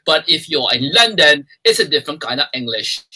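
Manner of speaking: playful attempt at a London accent. Shown as a demonstration. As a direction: play around with London English. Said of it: "I'm just playing around with accents".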